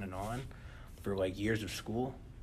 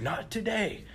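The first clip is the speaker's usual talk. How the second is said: laughing mock yell; 11 semitones higher, slower than usual. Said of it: "catch it and yell".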